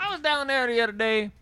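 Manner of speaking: put-on Southern good old boy's small talk; Southern folksy. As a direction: draw out a folksy Southern story.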